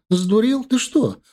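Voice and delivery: wife screams at husband after being pushed; shouting wife. A narrator's reading. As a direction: cry out at the husband who shoved her. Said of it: "начала кричать она".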